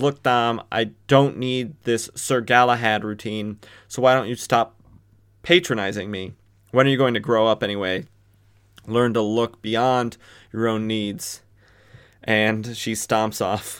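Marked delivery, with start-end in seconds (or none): none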